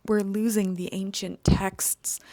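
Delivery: hushed dramatic whisper. Pretend. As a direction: breathe it like a sacred secret. Dramatic aside about lost knowledge.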